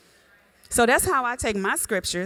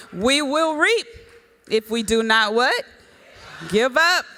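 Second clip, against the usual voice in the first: preaching at full force. Real, not acted. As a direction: lift it up and call for the answer. Preacher call and response to congregation.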